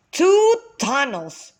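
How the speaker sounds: slow, startled exclamation; father surprised by a fork in the cave. Acted. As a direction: stop short and exclaim. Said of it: "exclaimed Father Ox".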